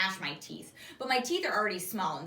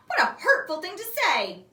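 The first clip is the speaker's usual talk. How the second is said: mock offence; 8 semitones higher, 7 dB louder than usual. A narrator's reading. Defends toy elephant.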